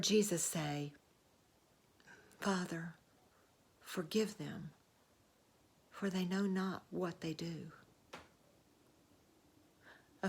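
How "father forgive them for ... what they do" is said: softly voiced dying plea; quiet prayer. Crucified Jesus asking his Father's forgiveness for others, quiet prayer. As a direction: pray it softly, with pauses between phrases.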